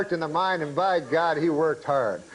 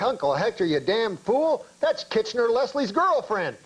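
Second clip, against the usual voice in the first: acted exasperated scolding, rising in pitch; mock-appalled reprimand; 5 semitones higher than usual. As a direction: tell off a fool, pitch climbing to the punchline. Miners scold uncle in punchline.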